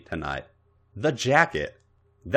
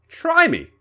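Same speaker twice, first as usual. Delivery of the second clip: teasing; 5 dB louder than usual. Acted. Teasing challenge from behind.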